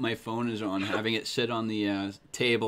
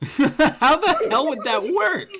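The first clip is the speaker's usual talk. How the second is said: laughing; 13 semitones higher, 8 dB louder, slower than usual. Real, not acted. Laughing disbelief at cat cross.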